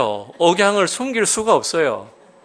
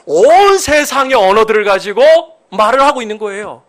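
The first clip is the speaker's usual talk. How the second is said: preaching at full force; 8 semitones higher, 6 dB louder than usual. Acted.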